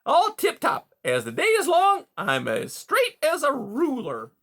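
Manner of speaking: high, loud oily reassurance; smooth reassuring beaver. A narrator's reading. Beaver reassuring worried Rye, high and oily. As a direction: soothe him like a con man.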